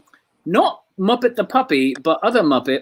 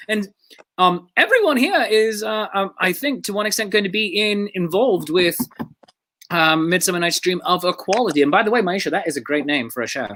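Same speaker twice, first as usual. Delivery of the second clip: ordinary delivery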